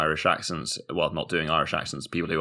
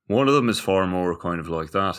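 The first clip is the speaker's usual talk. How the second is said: Irish accent. Shown as a demonstration. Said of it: "the difference between Northern Irish and Irish".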